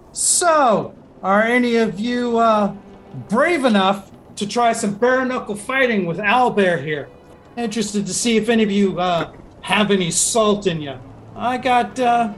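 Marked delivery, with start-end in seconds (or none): 0.1-10.9 GM voicing Lagra. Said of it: "just goes".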